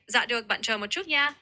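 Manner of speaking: "Dạ được" opened with a Northern z sound; Northern pronunciation. Shown as a demonstration. Tutor plays cashier replying to an order, Northern pronunciation. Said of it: "is a Northern pronunciation of that word".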